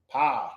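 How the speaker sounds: "Power" as one syllable, pow. Shown as a demonstration. Man showing what his church learned, "Power" as pow. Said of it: "We learned it".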